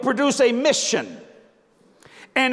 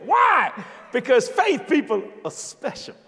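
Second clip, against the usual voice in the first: exclaimed point. Acted.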